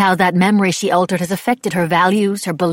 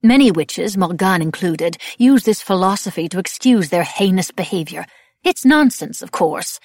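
loud, emphatic lecture; Madame Labelle, lecturing; 2 semitones higher, 7 dB louder than usual. A narrator's reading. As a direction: hold forth forcefully, suppressing anger. Angry woman lectures the group.

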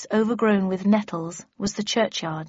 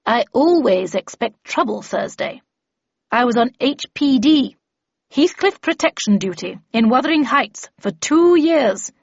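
lightly voiced seasoned veteran, louder; emphatic character voice, a little higher; Miss Havisham, emphatic; 4 semitones higher, 4 dB louder than usual. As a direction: recount old dangers with firm emphasis. Narrator voices Miss Havisham's dialogue.

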